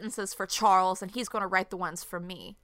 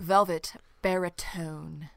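whisper; 3 semitones lower, much slower than usual. Pretend. Teasing whisper of the compliment.

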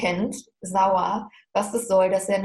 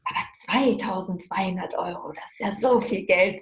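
put-on awed child. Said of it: "der kleine Junge so mega berührt davon".

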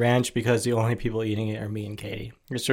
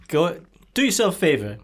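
mock ad pitch; 4 semitones higher than usual. Mock ad pitch for pizza roll.

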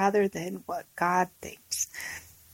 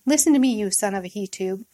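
a quick, slightly raised mock shout; mild shout; faster than usual. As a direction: snap it out fast, a touch of Saul's rage. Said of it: "Saul shouted at him".

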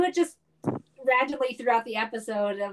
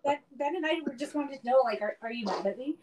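laughing mock worry; 3 semitones higher than usual. Mock anxious asking, laughing.

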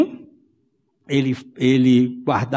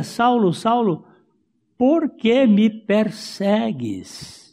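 voice of the Lord; 7 semitones higher, slower than usual. Acted. Preacher voices the Lord calling.

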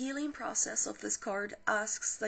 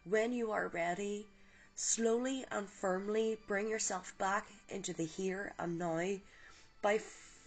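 calm guided visualization read; guided meditation. Acted. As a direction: ease the listener gently into the light. Leads a guided healing meditation.

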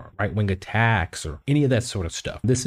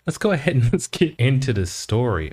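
nervous laugh; 4 semitones higher than usual. Real, not acted. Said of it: "more like a nervous laughter".

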